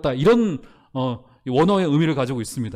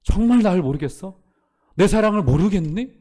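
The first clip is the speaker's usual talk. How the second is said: the Lord pleading; 3 dB louder than usual. Retold or imitated. The Lord asks the listener if they know his love, pleading. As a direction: plead like a hurt but loving Lord. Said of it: "주님이 혹시 여러분들에게".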